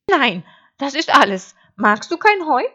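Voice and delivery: high, loud sheep voice; naive sheep. Acted. Sheep puzzled that wolf refuses hay, high bleat. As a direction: bleat it out, high and matter-of-fact.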